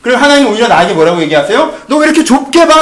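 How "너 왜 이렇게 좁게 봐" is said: God's gentle rebuke. Retold or imitated. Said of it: "라고 얘기하신다는 거예요".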